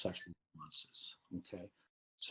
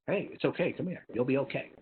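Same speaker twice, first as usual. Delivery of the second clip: put-on high, bright soothing to an upset child; sympathetic comfort; 5 semitones higher than usual. Shown as a demonstration. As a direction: coo the comfort, a touch higher. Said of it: "because sympathy".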